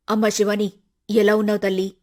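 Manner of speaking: a hint of an aging mother, fond; old mother. Mother welcoming her daughter home, lightly voiced fond mother.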